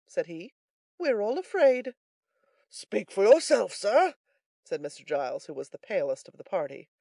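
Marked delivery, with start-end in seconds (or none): 1.0-2.0 high character voice; philosophical third man. A narrator's reading. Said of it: "most philosophically". 2.7-4.2 loud, slow, higher-pitched retort; indignant Giles. A narrator's reading.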